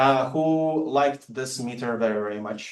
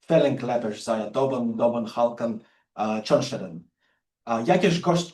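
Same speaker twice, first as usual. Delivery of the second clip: poem recitation. Acted. Lecturer recites The Raven in translation to show the meter, rhythmic recital. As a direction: ride the meter through both languages. Reads Raven, English then Polish.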